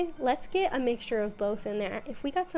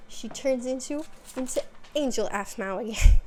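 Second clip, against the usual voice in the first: louder, cracking up by the end; breaking into laughter; 2 semitones higher, 4 dB louder than usual. Real, not acted. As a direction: lose it laughing on the last words. Breaks into laughter mid-sentence, then retakes it.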